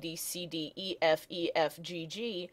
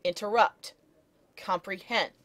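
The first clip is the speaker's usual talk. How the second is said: "interrupt, comprehend" stressed on RUPT and HEND; two light syllables, then weight in "interrupt" and "comprehend"; anapestic stress; 2 semitones higher than usual. Shown as a demonstration.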